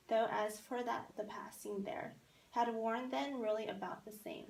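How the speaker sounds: a lightly read poem, steady and even. Acted. Teacher reading Frost to the class, poem recital. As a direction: read the verse aloud to the class.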